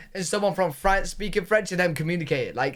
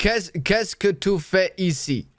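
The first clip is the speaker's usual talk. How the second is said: put-on slow, careful learner's French accent; Swiss-sounding French; slower than usual. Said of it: "more like Swiss".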